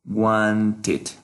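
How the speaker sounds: WANTED as two separated syllables, "id" at the end; pronunciation demo. Shown as a demonstration. Teacher modeling pronunciation for students, WANTED ending in "id". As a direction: model WANTED with a clear final "id". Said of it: "This is the right pronunciation".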